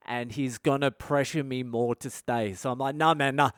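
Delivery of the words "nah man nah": anxious. Retold or imitated. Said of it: "now I'm starting to get real nervous".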